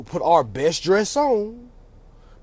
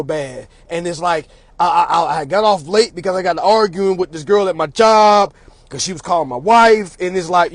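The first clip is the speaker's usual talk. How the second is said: halting, rambling excuse to a judge; lightly acted nervous justifying; over-explaining defendant. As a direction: stumble through too many excuses. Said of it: "they over-explain themselves".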